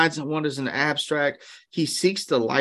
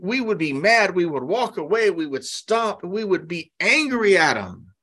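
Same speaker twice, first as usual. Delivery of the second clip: normal talking voice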